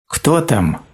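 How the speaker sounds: a high, small timid question; the donkey asks thinly through the door; thin little voice. A narrator's reading. Ослик тоненько спрашивает, кто стучит в дверь. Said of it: "тоненько спросил ослик".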